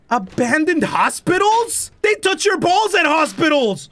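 slow, incredulous outrage at the idea; mock outrage. Real, not acted. Joking outrage at hospital.

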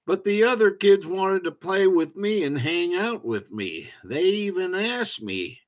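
high, lightly voiced young mantis; child protesting. A narrator's reading. Young mantis protests to grown-ups.

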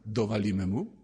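put-on a naughty child egging him on; the inner child tempting the priest to hit back, low and sly; scheming inner child. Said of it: "podziemne dziecko mówi".

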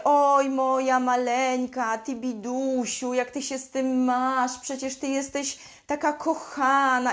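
hammed-up doting mother pitying her daughter; mock ruinous empathy. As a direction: coo over her like she is a helpless baby. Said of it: "rujnującej empatii właśnie w stylu".

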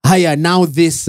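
slow, lightly voiced Malay uncle; Singaporean uncle. Explaining the word pula, mild uncle manner. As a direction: drag it out with a hint of uncle. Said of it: "That was the most uncle thing".

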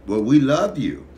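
big, high, loud call of love; loud shout-out. Acted. Host yells his love to viewers. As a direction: belt it to the fans. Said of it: "hype farewell".

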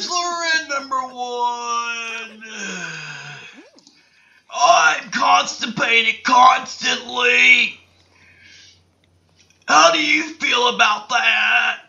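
bellowing a hammed-up bachelorette, slow and strained; shouted contestant voice. Host reading contestant one's answer, hammed-up shouting contestant. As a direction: yell the contestant's line like a crying parody. Voicing a dating-show contestant.

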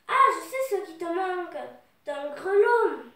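loud, dawning discovery; sudden realisation. Acted. Friend spots Oui-Oui's missing bell, loud sudden realisation. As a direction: announce it loudly, drawing out the last words.

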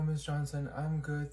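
ordinary talk

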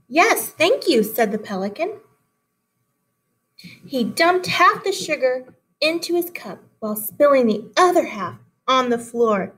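put-on lively read-aloud for children; story reading. A narrator's reading. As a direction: read the fable to the class, animated. Teacher reads fable aloud.

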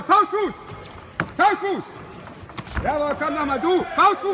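shouting. Real, not acted. Coach calling combos ringside.

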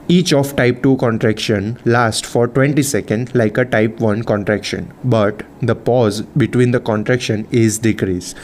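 slow, measured reading of notes; slow textbook read-out. Real, not acted. Teacher reading physiology notes to students, slow and measured. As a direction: read it out slowly, phrase by phrase. Reads lesson text aloud slowly.

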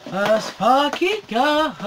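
slow, stretched-out cheer; drawn-out hype cheer. Real, not acted. Collector cheers over his new package, drawn out. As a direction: stretch each word in mounting hype.

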